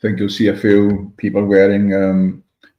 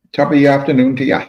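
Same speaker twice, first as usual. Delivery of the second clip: put-on a half-hearted stab at an Irish accent, a touch higher; failed Irish accent; 5 semitones higher than usual. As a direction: try an Irish greeting in a weak, botched Irish accent. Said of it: "I can't do an Irish accent".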